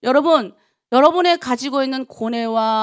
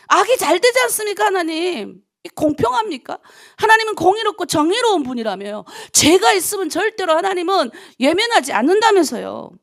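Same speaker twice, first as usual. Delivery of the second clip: high, loud protest to God; re-enacted complaint in prayer, pitched up and forceful; retold angry prayer; 5 semitones higher, 4 dB louder than usual. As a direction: confront God with raised, indignant voice. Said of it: "막 화가 나서".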